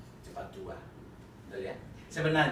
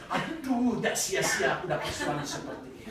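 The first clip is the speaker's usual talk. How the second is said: high, giggling praise of an angry husband; wife laughing while she thanks God for her angry husband; laughing mock praise; 7 semitones higher, 6 dB louder than usual. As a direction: squeal it through laughter, teasing. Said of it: "saya katakan".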